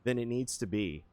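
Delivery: voicing the baffled brain, a mild mock yell; inner screaming. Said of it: "my brain is, like, screaming".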